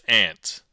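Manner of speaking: "ant" with the short a of cat; mistaken regional pronunciation. Shown as a demonstration. New Englander explaining the word, short-a pronunciation. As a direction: say "ant" like the insect. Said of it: "We pronounce this as ant".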